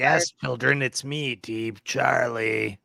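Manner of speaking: a hint of creepy villain, slowing at the end; lightly put-on spooky announcement, stretching the name. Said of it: "I'm gonna say".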